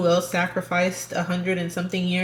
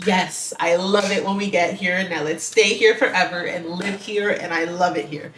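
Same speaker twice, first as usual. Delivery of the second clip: gushing; 5 dB louder than usual. Retold or imitated. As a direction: gush like a swooning fan. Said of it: "And I'm just like".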